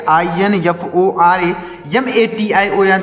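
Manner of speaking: slow letter-by-letter spelling; spelled out slowly. Shown as a demonstration. Teacher spelling the word for students, slow and deliberate. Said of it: "ऐसे आप words की meaning को याद करेंगे".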